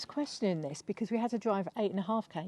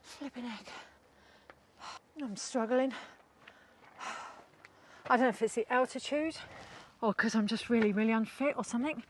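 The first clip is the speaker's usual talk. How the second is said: heavy breathing; 3 semitones higher than usual. Real, not acted. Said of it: "I can hardly breathe".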